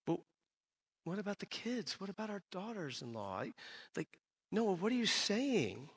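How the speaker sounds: high, hushed voice of an anxious wife; worried wife. Retold or imitated. Wife questioning Noah about the kids and daughters-in-law, worried. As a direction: plead softly, pitch rising high, stretching the last question. Wife retold as pleading, alarmed.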